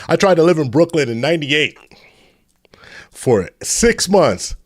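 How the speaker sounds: laughing through the line. Real, not acted. Host recalling Brooklyn days, laughing. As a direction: chuckle while admitting it. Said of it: "laughs at himself".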